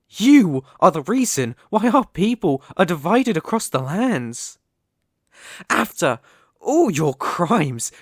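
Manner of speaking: rising into a loud, furious tirade; angry accusation. Acted. Elf guard confronting the human intruder, building to a furious shout. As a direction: hurl the old crimes at the intruder.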